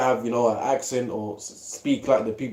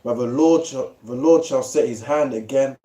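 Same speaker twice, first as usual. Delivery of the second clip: measured, slightly raised reading of scripture. Acted. Friend reads Isaiah aloud to the group, solemn reading voice. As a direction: read the verse out like a preacher.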